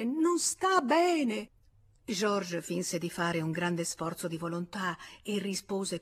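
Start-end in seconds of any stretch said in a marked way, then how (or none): 0.0-1.5 stammering protest. Acted. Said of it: "Lei balbettava".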